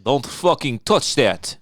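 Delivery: put-on slow, level Eastern European accent, no scream; quiet Eastern European accent. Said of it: "Well, she screamed it".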